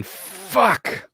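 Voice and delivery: put-on high yelp of a cursing kid; mock kid yell. Imitating a kid yelling at a game, a mock yell. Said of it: "the kid yelling".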